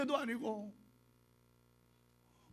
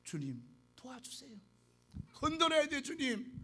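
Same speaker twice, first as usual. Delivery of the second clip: quiet prayer; 3 semitones higher, 5 dB quieter than usual. Shown as a demonstration. Pastor models a quiet prayer.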